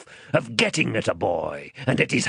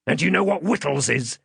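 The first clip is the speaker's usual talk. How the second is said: higher, threatening rough-man voice; menacing man; 7 semitones higher than usual. Acted. Man tilting the child back as he questions, menacing.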